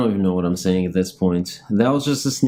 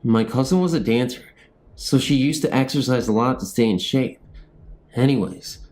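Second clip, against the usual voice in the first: ghost story reading; 3 semitones higher than usual. Acted. Narrator reading a haunting story to viewers, steady storytelling. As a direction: read the spooky tale to viewers.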